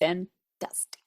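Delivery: put-on drawn-out word in a light French accent. Podcast host praising her bread to her co-host, playful French accent. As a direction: play at a French accent, slowly. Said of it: "Very nice French accent".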